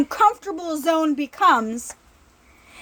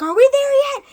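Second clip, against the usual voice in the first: weary player pleading; 9 semitones higher, faster than usual. Retold or imitated. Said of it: "and he's like".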